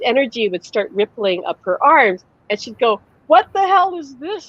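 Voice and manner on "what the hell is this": much higher, alarmed retelling of mother; mock freak-out. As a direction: imitate a freaked-out mother, pitched way up. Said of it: "it freaked her out".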